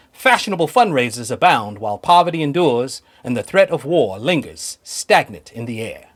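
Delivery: put-on a light Mid-Atlantic accent, old movie narrator; lightly done Mid-Atlantic accent, noir narration. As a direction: read it like a thirties noir voiceover in a hint of Mid-Atlantic accent. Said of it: "I'm gonna read it in my best, uh, Mid-Atlantic accent".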